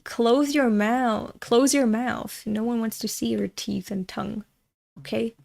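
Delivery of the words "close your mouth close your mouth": slow, drawn-out stern order; slow scolding. Real, not acted. Streamer scolds the mouth-breathing characters, slow and stern. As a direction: drag out the command like a scold.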